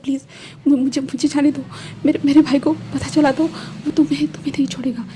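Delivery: lightly voiced frightened plea, stammering; mild tearful pleading. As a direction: beg him to let you go, voice a touch strained. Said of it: "विंग कह रहा". (हल्की सी डरी हुई, हकलाती गिड़गिड़ाहट)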